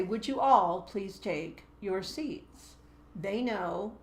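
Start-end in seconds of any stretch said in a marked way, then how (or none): 0.0-2.8 slow question that is really an order; command as question. Shown as a demonstration. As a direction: ask it so no choice is left. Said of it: "Now, when I say".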